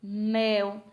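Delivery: each word loud and on its own; one firm beat per word, with gaps between; single-syllable beats. Shown as a demonstration. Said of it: "palavras que a gente só emite um som".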